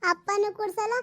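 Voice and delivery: a lightly voiced small girl, sulking; little girl. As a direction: play the daughter whining for new clothes. (ಹಠ ಮಾಡುವ ಪುಟ್ಟ ಹುಡುಗಿಯ ಧ್ವನಿ)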